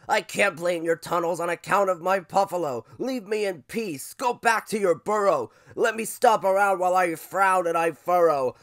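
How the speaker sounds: loud, huffy buffalo voice; grumpy buffalo cry. Acted. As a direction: send the pest away as a cranky buffalo. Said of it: "cried Buffalo Fluffalo".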